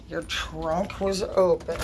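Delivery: slow, flat disbelieving repeat; dry mock repeat of a lie; sarcastic echo. Real, not acted. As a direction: drag it out like you don't buy it. Echoing the excuse in disbelief.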